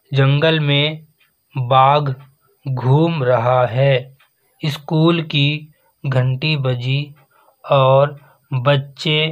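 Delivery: slow, deliberate dictation reading, phrase by phrase. Shown as a demonstration. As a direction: read each phrase slowly for pupils to write. Reads dictation sentences slowly.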